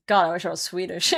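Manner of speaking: usual speaking voice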